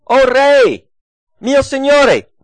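high, loud cry to a king far off; calling out. Retold or imitated. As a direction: call out to Saul from the cave mouth. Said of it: "e grida".

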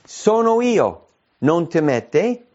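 high, slow, reassuring voice of Jesus; calm the frightened disciples; slow, high-pitched "sono io"; Jesus speaking. Acted. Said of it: "quando Gesù diceva".

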